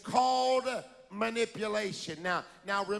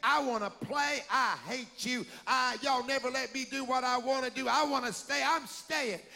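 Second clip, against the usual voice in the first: put-on child shouting. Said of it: "she's shouting".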